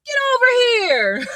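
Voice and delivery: high, strained game-fighter call; Mortal Kombat. Retold or imitated. Recapper mimicking Nate's fighting-game move, Mortal Kombat call. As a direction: launch the first words high, drop on the last. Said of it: "he do a Mortal Kombat move".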